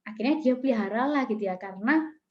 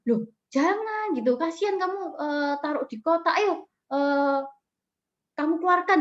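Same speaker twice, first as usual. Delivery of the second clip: higher, mildly pleading mother; retold motherly protest; 4 semitones higher than usual. Mother urging child to free the grasshopper, mild protest.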